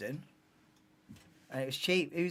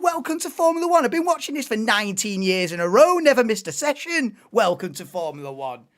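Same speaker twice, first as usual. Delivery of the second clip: indignant comeback; 2 semitones higher, 5 dB louder than usual. Retold or imitated. Streamer answering a commenter who calls him casual, indignant. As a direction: throw the line back at him, riled up. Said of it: "I think".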